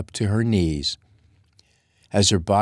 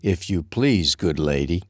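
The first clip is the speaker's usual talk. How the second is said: sarcastic. Acted. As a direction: lay on dry sarcasm. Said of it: "added with sarcasm".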